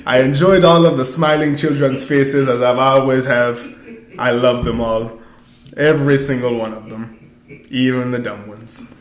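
hammed-up stiff proper speech; lightly put-on formal accent; mock Wakandan voice. Host mocks the movie's Wakandan speech, stiff proper voice. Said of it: "I can't do, I can't do it no more".

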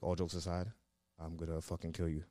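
retold low, hushed threat; quiet threat. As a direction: drop low and soft, imitating a threat. Retold bedside threat at night.

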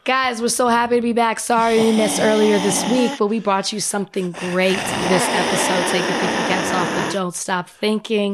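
hoarse, stuffy sick voice. Real, not acted. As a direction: talk like you have a cold. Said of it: "in your own sick voice".

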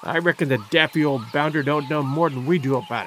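a lightly voiced surly sailor, low and rough; growled. A narrator's reading. Rat-faced sailor sneering at the professor, low and surly. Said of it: "growled the rat-faced sailor".

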